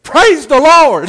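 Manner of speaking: loud, high, drawn-out hallelujah-style holler; acted jubilant shout, stretched out slowly; excited praise shout. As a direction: cry it out in jubilant relief. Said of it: "that guy got all excited".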